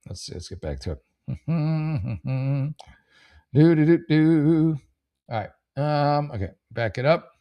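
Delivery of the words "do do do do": idle vocalising. Real, not acted. Filler noise while searching.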